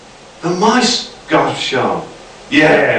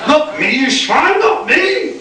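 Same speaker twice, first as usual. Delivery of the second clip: much higher, rising desperate cries; mock panicked scream; slower than usual. A narrator's reading. Nick to the mice eating him, hammy panicked shriek. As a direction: shriek as they swarm you.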